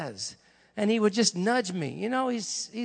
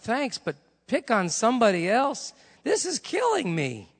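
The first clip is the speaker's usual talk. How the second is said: higher-pitched exasperated pleading; exasperated protest; 5 semitones higher than usual. Retold or imitated. Preacher begging God to pick somebody else, exasperated. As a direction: plead to be let off, voice climbing. Talks back to God in retelling.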